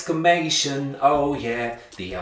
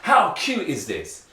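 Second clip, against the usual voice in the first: slow, lifted "How cute is this?"; teacher demoing an exclamation for kids; amazed exclaiming; 4 semitones higher, slower than usual. Shown as a demonstration. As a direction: draw it out, amazed. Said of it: "you're shouting".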